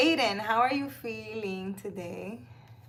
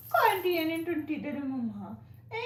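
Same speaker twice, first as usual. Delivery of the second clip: high, sing-song pet talk; 5 semitones higher than usual. Real, not acted. Talking baby talk to her cat.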